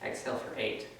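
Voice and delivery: whispered on the out-breath. Shown as a demonstration. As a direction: exhale for eight breathed out in a soft whisper. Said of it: "hold your breath for four seconds".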